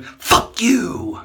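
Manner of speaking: full, high, furious shout; retold scream. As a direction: scream it out at the passing neighbour. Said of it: "I just scream".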